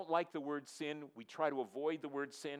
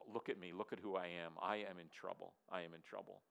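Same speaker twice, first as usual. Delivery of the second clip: low, much softer, broken admission of guilt; hushed confession; 6 semitones lower, 7 dB quieter than usual. Acted. Prophet confessing before God, low and hushed. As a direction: let it sink to a low hush.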